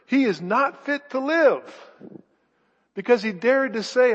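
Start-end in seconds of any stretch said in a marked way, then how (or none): 0.0-1.9 loud, higher mob cry; shouted. Acted. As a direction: shout it as the angry crowd. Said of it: "raised their voices and shouted".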